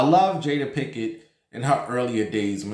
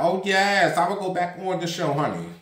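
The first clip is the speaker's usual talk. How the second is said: higher, mock-sweet Nene voice going back on her word; 5 semitones higher than usual. Nene on old footage, gushing high about going back. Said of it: "play that footage of you".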